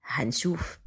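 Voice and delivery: low whispered tease. Acted. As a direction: breathe it out softly, very low. Teasing reply, whispered. (بهمس واطي)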